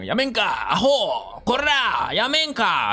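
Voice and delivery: hammed-up drunk brawler picking a fight; mock Japanese street insult. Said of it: "dirían".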